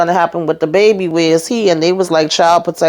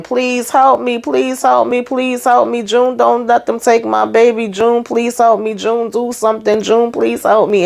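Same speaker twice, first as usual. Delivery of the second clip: retold begging, voice pitched higher; mock desperate pleading; 5 semitones higher than usual. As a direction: play the frantic mother, lightly acted. Retold character begging for help.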